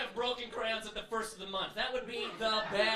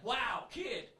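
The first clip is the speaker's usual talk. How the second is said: mock sympathy; 5 semitones lower, slower than usual.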